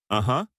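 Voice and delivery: Uh-huh with the weight on the second syllable huh; stress on huh. A narrator's reading. Husband answers ex-wife at the bar, Uh-huh stressed on huh. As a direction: lean into the last syllable huh of Uh-huh. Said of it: "putting the emphasis on the last syllable".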